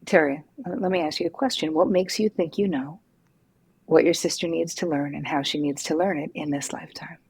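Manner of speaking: gentle, direct question to a client; calm, kind and straight to the point; compassionate but straightforward. Retold or imitated. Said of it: "very compassionately, but very straightforward".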